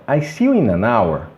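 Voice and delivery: "in an hour" run together as i-na-nour; ligação fluente. Shown as a demonstration. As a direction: link "in an hour" into one word. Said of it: "como se fosse apenas uma". ("in an hour" ligado, numa palavra só)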